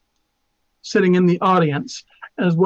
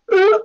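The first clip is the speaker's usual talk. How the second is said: throat grunt; 13 semitones higher, 4 dB louder than usual. A narrator's reading. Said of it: "he makes a sound like".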